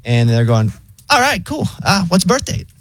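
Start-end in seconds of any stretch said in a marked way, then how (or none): 1.1-2.7 much higher, laid-back AI voice; chill robot voice. Retold or imitated. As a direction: play the breezy phone bot. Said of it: "the robot voice is, like, so chill".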